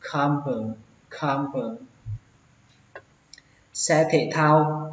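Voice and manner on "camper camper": "camper" said the preferred way, open ah in CAM. Shown as a demonstration. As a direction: say "camper" like "kham-pơ". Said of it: "cách đầu tiên hơn".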